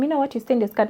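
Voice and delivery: softly telling her discreetly; kind quiet tip-off. Shown as a demonstration. To a woman with a stained skirt, a discreet soft tip-off. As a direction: lean in and quietly let her know. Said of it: "be kind enough to tell them".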